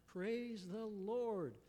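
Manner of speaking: high, slow, joyful call; cried out praise. Acted. Millie cries out thanks over the food bags. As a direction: lift it up slowly in thanks. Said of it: "she cried out".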